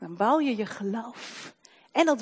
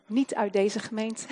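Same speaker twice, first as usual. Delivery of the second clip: normal talking voice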